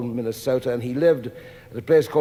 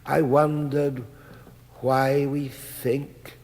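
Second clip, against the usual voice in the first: measured, earnest reading of a letter, slowing on the questions. Acted. Reading a sculptor's letter to the audience, earnest and measured. Reads friend's letter aloud.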